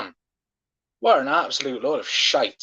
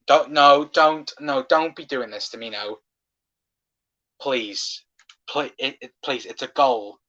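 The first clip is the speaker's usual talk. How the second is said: anxious pleading; 2 semitones lower than usual. Real, not acted. VAR check, fan pleads.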